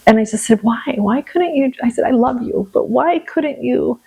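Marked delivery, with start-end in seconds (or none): 0.6-1.7 retold higher-pitched why; aggrieved appeal to God; mad, frustrated. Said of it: "I was just so mad". 2.1-4.0 retold plea, pitched up at first; loving but aggrieved protest to God; mad, frustrated. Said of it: "I was just so mad".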